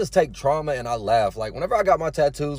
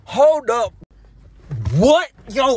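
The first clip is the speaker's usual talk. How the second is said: much higher and louder, real shock; disbelief; 6 semitones higher, 6 dB louder, slower than usual. Real, not acted. Vlogger stunned while retelling the stalker's claims, real high disbelief. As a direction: stop short, then a stunned high "What?". Shocked at his own story.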